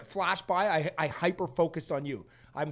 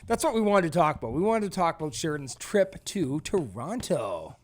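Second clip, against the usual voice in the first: put-on energetic host voice. Real, not acted. Host introducing the trip topic with put-on energy. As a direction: bring some show energy, stretching the words. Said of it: "Why am I talking like this?".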